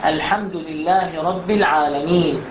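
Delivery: slow chanted tajweed recitation; Quran recitation. Shown as a demonstration. Teacher recites the Fatiha verse for the class. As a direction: recite the verse slowly and melodically. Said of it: "الآية الثانية من سورة الفاتحة".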